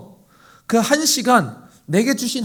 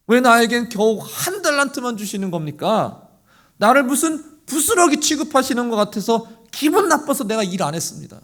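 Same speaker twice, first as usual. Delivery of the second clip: aggrieved, higher whining; sulky servant; 4 semitones higher than usual. Pretend. One-talent servant sulking to his master, aggrieved. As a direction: sulk and justify. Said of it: "뭐가 그렇게 불만인지".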